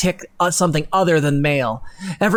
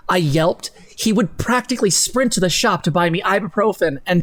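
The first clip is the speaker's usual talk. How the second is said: dramatic reading. Acted. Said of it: "it has to be in this dramatic tone".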